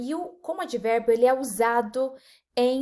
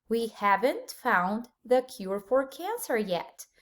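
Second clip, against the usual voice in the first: slow repeat; slower than usual. Shown as a demonstration. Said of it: "vamos ver alguns exemplos".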